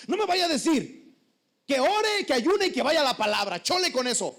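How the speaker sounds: hammed-up crying complaint; tearful lady. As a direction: whine like she's fed up. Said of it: "empezó a llorar".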